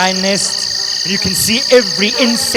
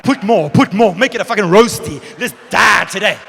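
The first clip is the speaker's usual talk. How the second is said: mock bravado; 5 dB louder than usual. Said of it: "I'm like".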